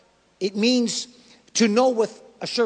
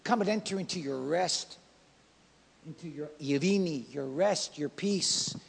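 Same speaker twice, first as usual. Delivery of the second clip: gentle voice of the Lord; 4 semitones lower than usual. Retold or imitated. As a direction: hush down and welcome the faithful servant tenderly. Preacher voicing God welcoming him home.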